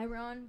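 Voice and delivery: "Iron" said as eye-RON; "Iron" with a full "ron" ending; joke mispronunciation. Shown as a demonstration. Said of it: "So it's like I".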